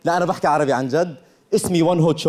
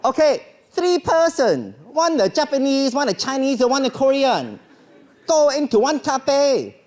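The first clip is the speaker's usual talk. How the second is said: put-on slow, higher broken English with a Korean accent; 5 semitones higher, much slower than usual. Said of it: "with this accent?".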